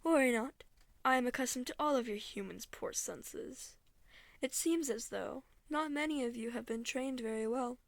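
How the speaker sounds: lightly voiced, composed otherworldly woman; condescending eldritch deity. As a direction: grant a lowly human one last chance, politely menacing.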